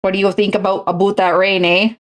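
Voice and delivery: jokey Canadian small talk; Canadian accent. Acted. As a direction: ask it like a stereotypical Canadian. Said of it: "the Canadian accent's so romantic".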